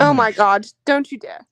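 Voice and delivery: mock British woman; fake British accent. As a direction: protest in a put-on British accent. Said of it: "fake British woman".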